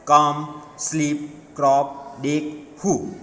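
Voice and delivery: each word a single beat; "come, sleep, crop, dig, who", each in one unbroken beat; one syllable each. Shown as a demonstration. Teacher listing one-syllable words, each said in one go. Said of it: "means is a one syllabus".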